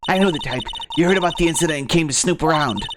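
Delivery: man doing a woman's voice; cranky grandma scolding. Acted. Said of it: "Grandma's wet making voice".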